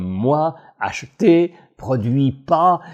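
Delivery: "moi", "acheter", "produit pas" each set apart and stressed; imitated word stress. Coach citing the words the executive accents, imitating her emphatic stress on "moi", "acheter", "produit pas". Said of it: "l'accent mis sur certains mots".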